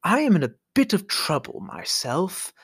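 fake grandson. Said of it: "He says".

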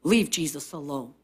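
low, soft hush; shushing. Acted. Crowd telling blind men to leave Jesus alone, hushing. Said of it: "They were saying".

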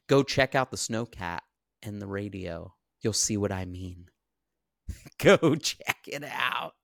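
laughing taunt. Retold or imitated. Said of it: "And he's laughing".

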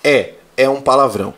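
calm fatherly explanation; father gently teaching son; patient father. Retold or imitated. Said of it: "daí eu falo assim".

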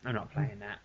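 near-silent, weight on playing; barely voiced, stressing playing in "I'm not playing that"; repeated mutter. Dad repeating refusal to himself, almost silent. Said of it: "I looked around and I thought".

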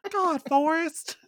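put-on high, drawn-out Southern accent; Jenny's Southern accent. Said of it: "her Jenny accent".

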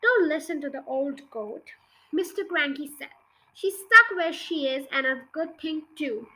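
put-on reading a children's book aloud; story narration. A narrator's reading. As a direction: tell it like a bedtime story. Reads a children's book chapter.

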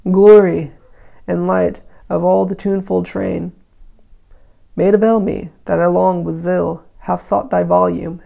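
put-on measured recitation of old verse; declaimed lightly, pausing between phrases; verse reading. A narrator's reading. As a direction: read the poem out with firm phrase openings. Reads the poem aloud.

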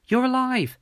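high, loud cry of relief; overjoyed yell; joyful shout. A narrator's reading. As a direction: exclaim it, pitch soaring. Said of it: "I shouted".

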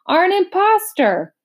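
high, frantic spelling-bee outburst; excited shout. A narrator's reading. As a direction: shriek the accusation letter by letter. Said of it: "shouted the bee very excitedly".

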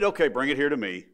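a touch of resigned disappointment; disappointed. Acted. Jesus giving in to his disciples, mildly disappointed. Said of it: "as if he was disappointed in".

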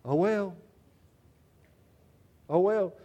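easygoing oh well. Shown as a demonstration. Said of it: "You just say".

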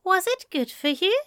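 high, caring lover's question; Aziraphale, tender. A narrator's reading. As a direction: check on him gently and lovingly. Aziraphale asks.

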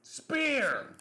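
stage-whispered wrestling shout; whispered call-out. Acted.

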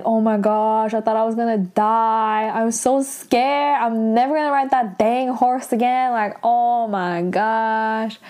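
imitated tearful wail. Aro scared after falling off her horse, mock tearful wail. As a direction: act shaken and whiny, dragging the last words. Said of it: "Aro is, like, crying".

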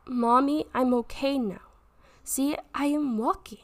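a hint of a small child calling. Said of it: "He said".

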